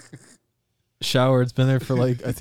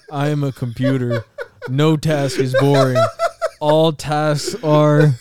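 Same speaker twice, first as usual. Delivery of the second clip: laughing through words; 4 semitones higher, 6 dB louder than usual. Real, not acted.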